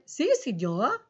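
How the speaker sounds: lightly put-on Spanish accent; a hint of Spanish accent for show; mock Spanish accent. Shown as a demonstration. Teacher showing pupils an accent, lightly imitating Spanish. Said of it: "Did you ever speak in an accent?".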